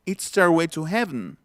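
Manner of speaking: 'Heaven' ending in bare vn; natural reductions. Shown as a demonstration. Teacher applying the lesson, 'Heaven' without its last vowel. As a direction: say 'Heaven' as HEV-n in the phrase. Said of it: "aquí estoy aplicando ya todo lo que ya traemos".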